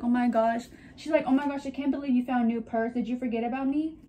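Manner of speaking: a fast, hammed-up jealous whine; dramatic jealous bag. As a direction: play the jilted purse, fast and dramatic. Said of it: "She's so dramatic".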